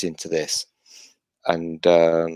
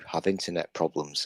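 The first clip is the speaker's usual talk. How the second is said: knowing quip; 3 semitones lower, 12 dB quieter than usual. Real, not acted. Pointed quip about girls avoiding him.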